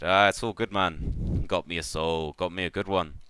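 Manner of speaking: lightly voiced pleased catfish baron; satisfied rogue, lightly played; Baron Vol. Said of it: "And he said".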